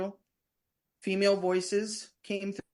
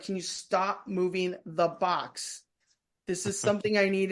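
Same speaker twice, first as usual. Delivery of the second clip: lightly voiced stern mom, each word spaced out. Investigator retelling telling off whoever moves the box, mom voice. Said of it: "like, mom voiced it".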